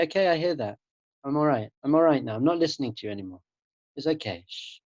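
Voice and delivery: mild calming voice, sinking into a hush; soothing self-talk. Acted. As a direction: gently settle a fussing mind. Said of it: "treat your mind like a baby".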